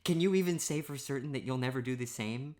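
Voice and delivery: ordinary talk, nothing marked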